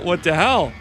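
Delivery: loud baffled outburst; outraged. Real, not acted. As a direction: complain loudly in disbelief. HP bar gone.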